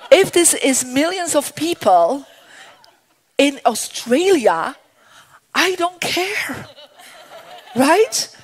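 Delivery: real laughter while talking; laughing. Real, not acted. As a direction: giggle through the words, delighted. Laughing at her own boldness.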